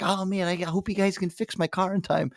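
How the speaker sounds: high, girlish imitation of the excited daughter; excited young girl voice. Mechanic imitating the daughter begging for the car fixed, high girlish voice. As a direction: mimic an eager teenage girl.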